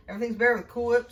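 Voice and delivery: put-on quoting an old ad slogan with a touch of announcer flair; commercial jingle voice. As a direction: sell it like a light retro commercial jingle. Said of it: "That sounds like a commercial to me".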